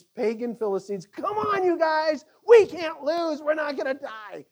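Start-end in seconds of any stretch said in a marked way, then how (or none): 1.1-4.4 high, loud battle shout; manly rally shout. Acted. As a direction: fire up the troops. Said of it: "a manly rally".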